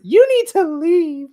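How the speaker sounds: high, loud, drawn-out mock order; slow, high-pitched hammed-up command; imperious wrestler. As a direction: imitate a diva ordering someone out from above. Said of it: "Athena from the balcony tells".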